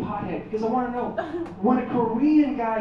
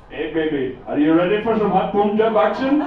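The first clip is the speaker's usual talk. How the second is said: phone sex voice; 5 dB louder than usual. Acted. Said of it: "It would be like".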